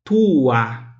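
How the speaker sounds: tua said as tu-a; two-syllable tua. Shown as a demonstration. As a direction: stretch it into tu-a. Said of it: "se eu falo". (tua em duas sílabas, alongado)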